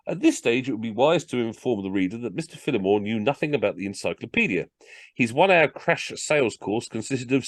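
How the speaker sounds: lively comic storytelling; story narration. A narrator's reading. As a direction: read it aloud like a funny tale. Reads a comic story aloud.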